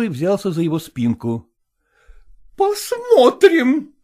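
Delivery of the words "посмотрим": high, loud, slow howl; wailing. A narrator's reading. Zoya defying Selezenkin, wailing. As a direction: howl it out in fury. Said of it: "завопила Зоя Кондратьевна".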